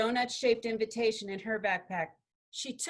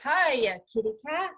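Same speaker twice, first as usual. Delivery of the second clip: loud, higher-pitched playful greeting; loud familiar voice; 3 semitones higher, 5 dB louder than usual. A narrator's reading. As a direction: call out a familiar hello, loud and high. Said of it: "another loud, familiar voice saying".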